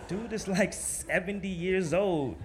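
cracking up at the thought; amused disbelief, laughing. Real, not acted. Laughing disbelief at old editor.

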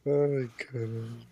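stifled giggles. Real, not acted. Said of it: "não pode rir".

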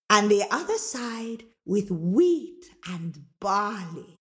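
slow, drawn-out ogress voice; ogress Mama Draga, benevolent. Acted. Mama Draga giving Rosetta a magic comb, slow and grand. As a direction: savour each word of the gift.

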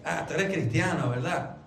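«Ah, tú eres cristiano» afirmado en tono grave, con «¿verdad?» de confirmación; reconocimiento. Shown as a demonstration. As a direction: di «cristiano» como quien acaba de reconocerlo. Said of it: "connotación completamente diferente". (constatación en tono grave)

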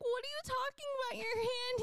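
fast, high-pitched retold alarm; imitated frantic question. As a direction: act out baffled panic, voice way up. Retells frantic reply to boyfriend.

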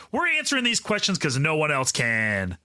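smooth radio host delivery. Pretend. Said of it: "Is that your radio voice?".

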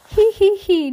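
very high, loud tee-hee; mocking giggle. A narrator's reading. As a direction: squeal a put-on giggle. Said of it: "shaking his pigtails in laughter".

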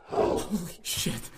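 slow awed whisper. Acted. Seeing the creature.

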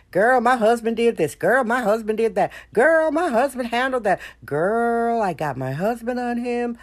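proud girlfriend gossip, lightly voiced; sassy girlfriend voice. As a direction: brag to your girlfriend about your husband. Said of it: "Black women are happy to say".

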